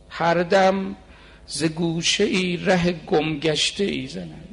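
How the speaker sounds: slow, fuller-voiced devotional recitation; intoned Persian couplet, unhurried; poem recitation. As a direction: draw out the verse like a lament. Recites next verse.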